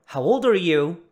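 put-on loud, linked "ol-dar" in "How old are you"; contrasting HOW OLD ARE YOU. Shown as a demonstration. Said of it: "Não confunda isso com". ("old are" junto, com o d de "old")

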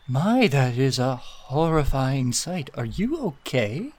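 slow, swooping, faintly horrified concern; appalled onlooker. Acted. Eliel reacting to Tedward's unblinking stare, appalled. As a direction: draw it out, pitch swinging up on the question.

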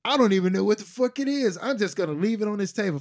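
quick, lightly imitated offhand quote; imitating other guy. Recapping how the other guy said it, in a quick light imitation. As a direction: rattle it off as a light impression. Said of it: "the way the other guy said".

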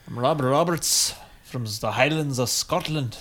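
put-on a light Scottish Sean Connery accent; lightly voiced Scottish Connery impression; a hint of Scottish brogue as Sean Connery. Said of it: "It's my Sean Connery".

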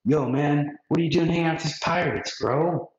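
chill bro. Retold or imitated. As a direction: razz your friend, dude style. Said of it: "They're like".

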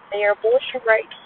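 talking through a cough; coughing fit. Real, not acted. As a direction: cough then carry on. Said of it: "I'm coughing".

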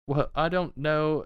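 high little man's voice, amused. Acted. Little man marvels at the returned horses, high. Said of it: "The little one begins to say".

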